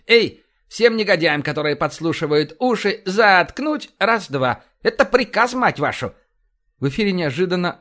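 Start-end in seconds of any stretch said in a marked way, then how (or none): 0.1-6.1 loud, high commanding call; rough officer's order, punched out; barked order. Acted. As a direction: bellow at your crew, stretching the key word. Barks an order to his crew.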